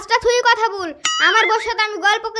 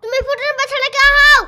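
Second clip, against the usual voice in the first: raised, annoyed retort; angry retort; 4 semitones higher, 4 dB louder than usual. Acted. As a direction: snap back at the nephew, a little higher and louder. Arguing over the nickname. (রাগী পাল্টা জবাব)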